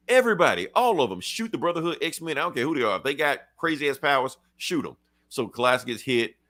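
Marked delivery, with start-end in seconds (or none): 0.1-5.0 high, half-yelled commander; mock soldier order. Guard commander ordering fire on all mutants, high mock shout. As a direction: act a trigger-happy officer barking at troops.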